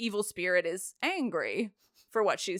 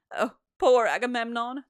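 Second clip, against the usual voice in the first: mock lament; 3 semitones higher than usual. Acted chorus lament, mocking.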